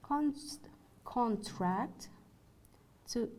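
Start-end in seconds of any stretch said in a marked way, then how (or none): 1.0-2.1 CONtract, stressed on the first syllable. Shown as a demonstration. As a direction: say "contract" with a full first vowel, CON-tract. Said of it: "compare stressed and unstressed syllables".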